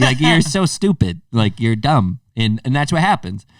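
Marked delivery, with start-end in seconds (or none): 0.2-2.2 self-scolding. Retold or imitated. Scolding his younger self.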